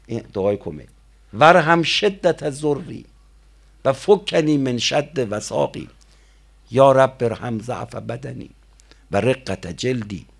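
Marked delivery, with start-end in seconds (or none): 1.3-10.3 prayer recitation. Acted. Reciting Kumayl supplication in sermon.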